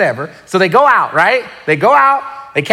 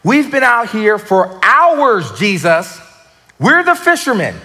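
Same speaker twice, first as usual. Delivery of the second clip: exasperated fisherman pushing back, higher; Peter protesting; 5 semitones higher than usual. Retold or imitated. Peter protesting to Jesus, exasperated. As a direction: plead like a tired fisherman who knows better. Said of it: "Peter's making his face like".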